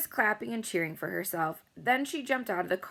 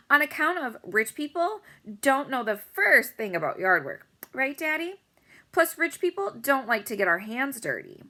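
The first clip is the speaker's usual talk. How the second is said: very high, loud, showy bragging; bragging girl; 6 semitones higher, 4 dB louder than usual. A narrator's reading. Rich girl welcoming everyone to her giant house, very high and showy. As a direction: gush over your own party.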